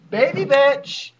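slow, high drawn-out shout; mock announcer. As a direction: call it out like a ringside announcer.

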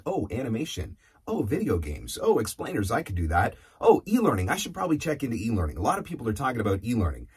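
eager mock inner monologue, pitch jumping on each new idea; lightly acted sudden interest; easily distracted. Coach mimicking a voice actor chasing shiny new objects, easily distracted.

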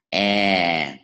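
long "E" with lips spread wide, falling; wide-lipped long E. Shown as a demonstration. Teacher models the wide-mouthed vowel for learners, wide-lipped long E. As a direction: stretch "E" out wide, letting the pitch sink. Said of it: "Nó cái miệng careful vậy".

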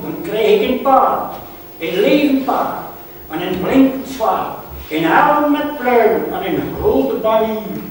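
put-on high, loud boyish declamation; little boy's eagerness. Boy tells mother about horse and sword, excited declaiming. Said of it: "Hier op het jongetje".

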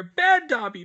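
high, loud self-punishing elf; self-scolding elf. A narrator's reading.

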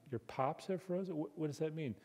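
softly baffled echo of "pops"; puzzled. Acted. Outsider asking what the Georgian meant, puzzled. Puzzled listener reacts to the accent.

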